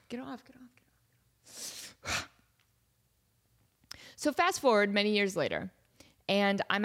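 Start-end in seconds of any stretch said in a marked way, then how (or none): 0.1-2.3 slow whispered get off; annoyed whisper. Real, not acted. Annoyed at a hair on her face, slow whisper. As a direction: hiss it under your breath at the hair.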